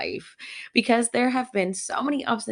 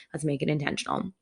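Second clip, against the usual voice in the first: calming down; 3 semitones lower, 5 dB quieter, faster than usual. Retold or imitated. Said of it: "bring myself down".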